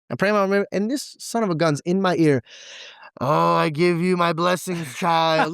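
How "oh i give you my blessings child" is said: slow, lightly voiced demon giving a blessing; a hint of a demonic priest, drawn out; mock demon. Friend whispering over his meal, slow mock demon voice. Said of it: "Like a full demon".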